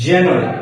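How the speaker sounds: "জানুয়ারি" as English JAN-yu-ary; correct pronunciation. Shown as a demonstration. Teacher modelling English January for learners, correct pronunciation. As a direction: open "জানুয়ারি" with an English jae vowel. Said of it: "সঠিক প্রনাউন্সিয়েশনটাকে আমার কাছ থেকে শিখে".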